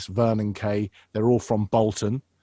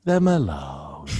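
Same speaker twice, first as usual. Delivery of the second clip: very slow, raspy Manchester drawl; Manchester accent; 6 semitones higher, much slower than usual. Shown as a demonstration. Impressionist demonstrates regional voices, slow Manchester accent. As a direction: stretch the vowels in a Manchester accent. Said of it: "in Manchester".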